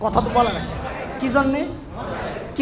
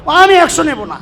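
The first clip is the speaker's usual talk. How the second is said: put-on pouting child; 4 semitones higher, 6 dB louder than usual. Child demands more money.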